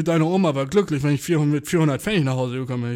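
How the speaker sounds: a loud, lightly voiced old grandpa; loud grandpa lecture. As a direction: hold forth like a grumpy grandfather. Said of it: "So ein Shit hat mein Opa gesagt".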